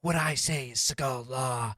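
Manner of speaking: a hint of a stern martial-arts star scolding; calm, menacing tough guy, lightly done; Steven Seagal impression. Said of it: "I'm definitely going to be Steven Seagal".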